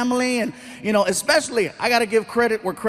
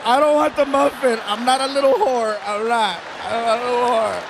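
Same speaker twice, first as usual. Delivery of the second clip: mock whining. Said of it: "I'm like".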